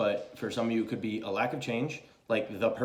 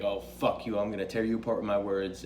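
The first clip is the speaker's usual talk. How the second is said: nasty, cutting mock snarl a touch lower; lightly acted bitchy queen; 3 semitones lower than usual. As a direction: spit it out like a petty insult. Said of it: "the bitchy one".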